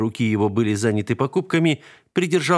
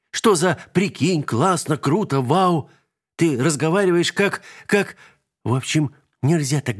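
возмущённо; 7 semitones higher than usual. A narrator's reading. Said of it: "возмутилась вдруг Вика".

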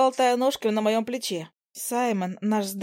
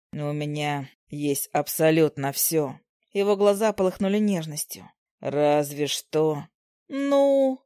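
low tender husband; 6 semitones lower, slower than usual. Acted. Husband tenderly asks for daughter.

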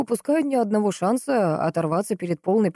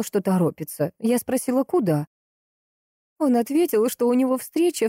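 higher woman's voice, recounting keenly; lightly acted sister, pitch often lifted; lightly voiced Valentina, agitated; 5 semitones higher than usual. Sister recounts the last visit to the investigator, lightly agitated.

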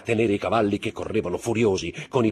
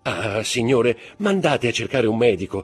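pleading mother; 3 semitones higher, 4 dB louder than usual. Acted. Mother begging for a doctor.

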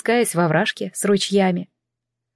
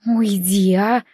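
ordinary delivery

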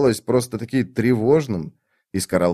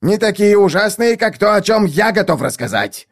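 higher, louder squeal; 10 semitones higher, 4 dB louder than usual. A narrator's reading. Iskaral squeals at Lady Envy, higher. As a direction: squeal it out eagerly. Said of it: "взвизгнул".

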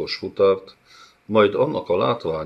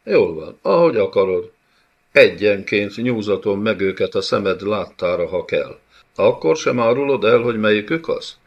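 menacing bey; 3 semitones higher, 5 dB louder than usual. Acted. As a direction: threaten her coldly, building up. Bey grows threatening.

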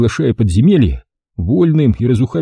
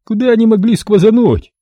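high puzzled bleat; high squeaky man puzzled; 12 semitones higher, 3 dB louder than usual. A narrator's reading. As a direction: bleat in confusion. Squeaky thug asks.

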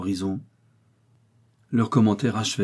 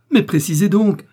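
much higher, loud yell; 11 semitones higher, 8 dB louder than usual. A narrator's reading. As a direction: scream at him to explain. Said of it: "hurla le pharmacien".

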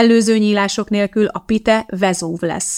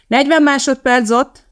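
calling out; 7 semitones higher, 5 dB louder than usual. A narrator's reading. Cameraman calls out time.

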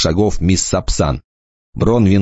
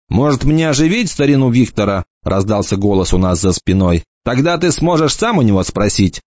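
a hint of a teasing young lad, pitched up; light mocking boy's voice; lightly voiced cocky boy; 3 semitones higher than usual. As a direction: toss it off like a smug teenager. Enoch's voice, narrated.

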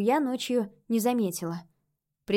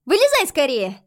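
put-on child ghost voice; 4 semitones higher, 8 dB louder than usual. A narrator's reading. Ghost girl hurrying.

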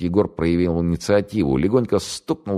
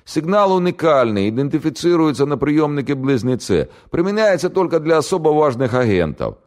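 much higher, louder panicky pleading; frightened prisoner; 11 semitones higher, 4 dB louder than usual. Acted. Captured radio operator to the interrogator, high panicky pleading. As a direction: babble it out in terror.

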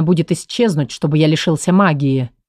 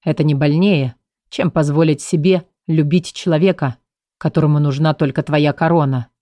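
low, bitter and grim; lower, hard and gloomy; 3 semitones lower than usual. Acted. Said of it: "проговорил он жёстким мрачным голосом".

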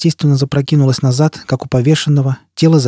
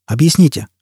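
raised voice; 4 semitones higher, 3 dB louder than usual. Acted. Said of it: "Он повысил голос".

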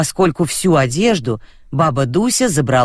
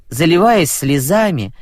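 ordinary delivery, nothing marked

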